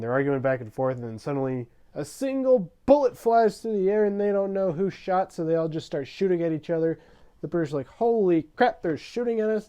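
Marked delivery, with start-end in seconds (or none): 1.9-7.0 high, loud burst of escalating alarm; hyped-up battle storytelling; mock-dramatic outburst. Dramatic shooting outbreak retold. 7.9-9.7 high, loud panicked yell; comic shout of a soldier under fire; mock panic. British panic under fire, acted.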